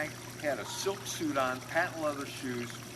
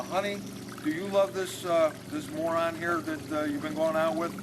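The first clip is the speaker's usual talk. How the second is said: doting, blustering father; 4 semitones higher, 4 dB louder than usual. Retold or imitated. Father questions daughter, higher and louder.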